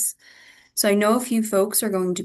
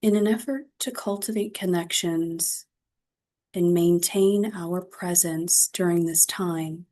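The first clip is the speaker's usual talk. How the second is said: guided meditation. Acted. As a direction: guide them gently into reflection, phrase by phrase. Leads a mindfulness practice.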